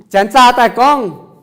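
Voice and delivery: slow loud model. Shown as a demonstration. Teacher modelling a phrase.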